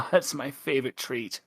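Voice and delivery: light laugh of satisfaction; pleased, laughing aside; amused relish. Acted. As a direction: chuckle while savouring a treat. Character gloats over her meal.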